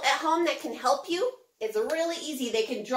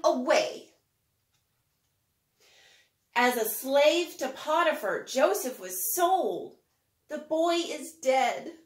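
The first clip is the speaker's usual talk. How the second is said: measured read-aloud with slow, stretched lines; gentle rhythmic storybook narration; rhyming story reading. Acted. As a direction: tell it like a children's Bible storybook. Reads rhyming Joseph story.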